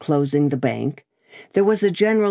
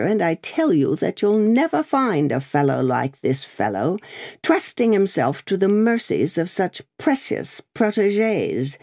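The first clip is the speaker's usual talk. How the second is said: bullying barrister; 5 semitones higher than usual. Acted. Stryver harangues the crowd.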